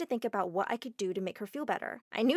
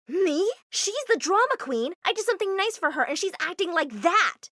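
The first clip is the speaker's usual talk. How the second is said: higher, loud defensive shout; indignant protest; 8 semitones higher, 6 dB louder than usual. Acted. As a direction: fire back at mom. Daughter arguing back with mom.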